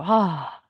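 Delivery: long audible out-breath sigh; demo sigh. Shown as a demonstration. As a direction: breathe it all out in one sigh. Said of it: "한숨 쉬게 하시고". (길게 내쉬는 한숨)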